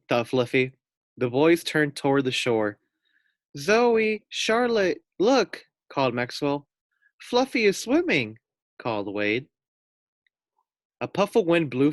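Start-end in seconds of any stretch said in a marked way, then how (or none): 3.6-5.7 much higher, louder call to shore. A narrator's reading. Maxwell calling to the girls on the shore, high and loud. 7.2-8.4 much higher, louder call to shore. A narrator's reading. Maxwell calling to the girls on the shore, high and loud.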